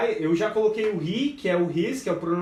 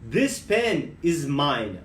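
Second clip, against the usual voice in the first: slow, careful and spelled out; slow teaching demo; 5 semitones lower, much slower than usual. Shown as a demonstration. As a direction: lay out each word for learners. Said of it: "se eu for falar". (devagar, bem pausado)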